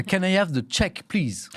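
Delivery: English with a thick French accent. Shown as a demonstration. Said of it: "en anglais avec mon accent à moi".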